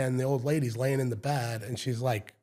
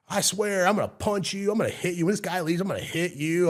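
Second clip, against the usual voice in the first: higher-pitched mock tantrum; raised, insistent retold threat; kid making threats; 5 semitones higher than usual. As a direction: imitate an angry son threatening his mother. Retold kid threatens his mom.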